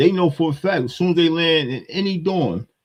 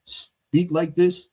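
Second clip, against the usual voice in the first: mocking his speech; 3 semitones higher, much slower than usual. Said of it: "I can't believe when a brother like this right here".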